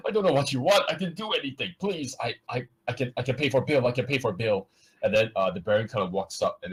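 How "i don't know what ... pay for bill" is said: high, desperate begging of a beaten man; high pleading voice. Acted. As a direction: beg for mercy in a high, cracking voice. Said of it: "The guy goes, like".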